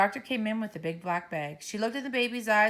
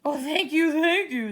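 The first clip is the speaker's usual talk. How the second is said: louder, higher grateful gush; relieved thanks; 9 semitones higher, 7 dB louder than usual. Acted. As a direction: overflow with relief. Principal relieved.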